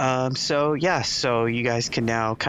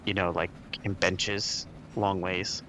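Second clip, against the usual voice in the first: usual speaking voice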